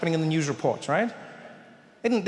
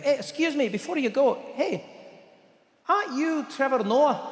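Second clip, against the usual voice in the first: curious waiter; 7 semitones higher than usual. Retold or imitated. Waiter stopping Trevor.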